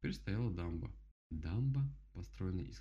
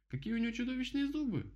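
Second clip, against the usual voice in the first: much higher, aghast; frightened rabbit; 4 dB louder than usual. Acted. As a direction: gasp at the huge teeth. Rabbit terrified by teeth.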